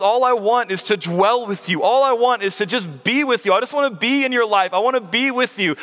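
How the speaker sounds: lightly voiced parent pleading to be close. Preacher voicing God to the congregation, pleading like a parent. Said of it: "Do you hear a parent in this".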